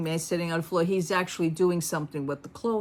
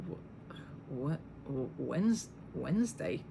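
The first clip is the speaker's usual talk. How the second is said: dumb clerk; 3 semitones lower, 9 dB quieter, much slower than usual. Retold or imitated. Clerk's confused reply retold.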